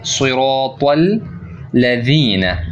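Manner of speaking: सिरातल लदीना slow with a heavy, full सिरात; heavy sirat. Shown as a demonstration. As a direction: make सिरात thick and full. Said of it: "सिरात को अपने मोटा पढ़ना है".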